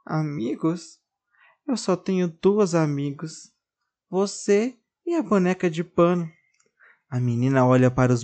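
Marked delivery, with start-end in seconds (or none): 0.1-6.3 sad doll. Acted.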